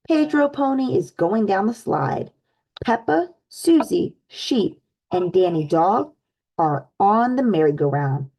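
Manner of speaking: lively storybook read-aloud for little ones; animated picture-book narration; reading to children. Acted. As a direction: read it like story time with kids.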